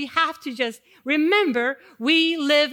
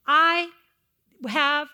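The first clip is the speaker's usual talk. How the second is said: slow reassuring; 3 semitones higher, much slower than usual. Retold or imitated. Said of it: "he says to them".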